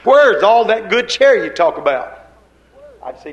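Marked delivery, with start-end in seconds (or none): 0.0-2.2 mock doubting congregant. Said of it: "And you'd say".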